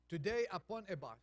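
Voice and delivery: poem reading. Shown as a demonstration. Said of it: "Someone wrote".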